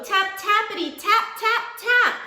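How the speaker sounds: rising tapping. A narrator's reading. Worrying tapping sound in story.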